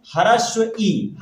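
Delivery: ह्रस्व ई drawn out slowly, each sound spelled clearly; teacher saying ह्रस्व ई very slowly; slow demo. Shown as a demonstration. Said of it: "इसीलिए इसको क्या बोलते हैं".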